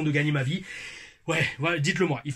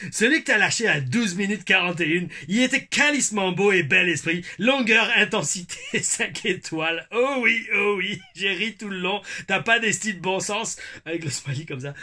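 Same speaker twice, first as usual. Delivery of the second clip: put-on Québécois accent; 4 semitones higher than usual. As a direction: relish the Québécois swear word. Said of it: "mon accent québécois". (accent québécois appuyé)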